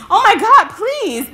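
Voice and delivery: very high panicked plea; hammed-up high wail; mock desperate begging. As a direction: imitate the man begging for mercy, starting loud. Acting out man begging.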